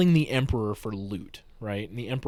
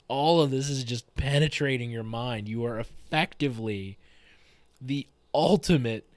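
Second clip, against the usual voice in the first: gleeful overdone description; 2 semitones higher, 5 dB louder than usual. Retold or imitated. GM hamming up the holocron trance.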